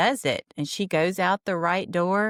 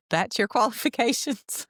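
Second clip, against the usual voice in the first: mock incredulous; 6 semitones higher than usual. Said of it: "And he says".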